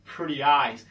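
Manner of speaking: a hint of meek flattery; nice-guy pickup. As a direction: lightly parody an eager nice guy. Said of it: "like, a nice guy".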